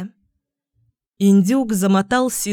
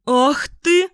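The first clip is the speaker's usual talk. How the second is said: higher, louder outraged cry; cook's startled gasp; 6 semitones higher, 3 dB louder than usual. A narrator's reading. Cook pinched by the gander, startled higher cry. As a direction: yelp as if pinched. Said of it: "ахнула стрепуха".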